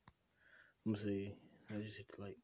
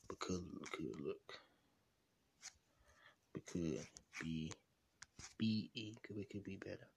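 low key diss. Acted. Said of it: "I do a little dissing".

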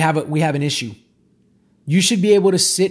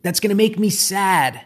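subconscious crying out. Pretend. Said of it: "the subconscious crying out and saying".

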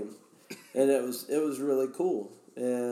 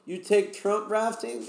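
high, halting Russian questioner; pitched-up imitation of a foreign buddy asking; imitated Russian guy; 8 semitones higher, slower than usual. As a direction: raise the voice into a Russian guy's eager question. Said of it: "he was like".

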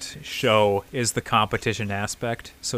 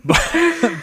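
laughing through the word; a real laugh breaking in; giggling but; 5 dB louder than usual. Real, not acted. Laughing mid-sentence.

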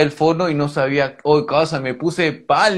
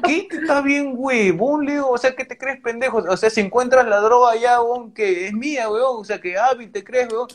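higher, heated mock yell at the policeman; retold yelling at cop; 5 semitones higher than usual. Yelling back at the cop who accuses him of dropping drugs, heated. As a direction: confront him, voice pitched up, indignant. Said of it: "comienzo a gritarle".

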